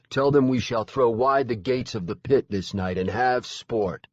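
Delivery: loud, lordly threat; menacing fae lord. Acted. Lord Aran dismisses the heroes, loudly menacing. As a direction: command them with hungry menace.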